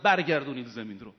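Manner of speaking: loud, quick frightened shout. Retold or imitated. Governor thrown down by Imam Hussein yells to return the land, loud fast shout. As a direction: yell it out fast, thrown to the ground. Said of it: "ولید فریاد زد".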